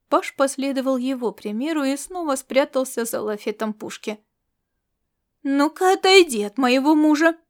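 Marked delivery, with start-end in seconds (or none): 5.4-7.4 louder, higher shout; queen shouting at the star cat; shouted order. Acted. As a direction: yell at the rival to get away. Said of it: "выкрикнула Вайда".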